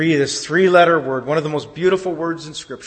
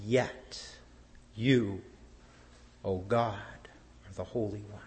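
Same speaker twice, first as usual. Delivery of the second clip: hushed whisper; 6 semitones lower, 13 dB quieter, slower than usual. Acted. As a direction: whisper it, soft and awed. Whispered reverent declaration.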